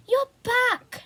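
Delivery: high, loud delighted cry; joyful shout. A narrator's reading. Sister shouting to her lost brother, high joyful cry. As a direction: burst out with glad relief. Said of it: "shouted Becky".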